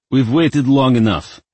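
loud, high announcement; a hint of a cranky elder; impatient old wizard. A narrator's reading. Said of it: "announced someone behind them".

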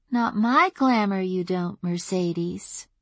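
put-on high, light little girl voice; child fae voice. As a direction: play the ancient fae as a child.

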